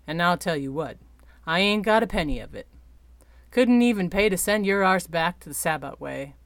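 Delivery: lightly voiced rough sky captain, grumbling; a hint of a broke, defiant ship captain; gruff old captain.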